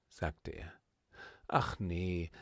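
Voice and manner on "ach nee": low, hesitant first ach nee; startled hesitation. Acted. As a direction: pull back in sudden doubt. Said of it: "rief die Kleine erschrocken".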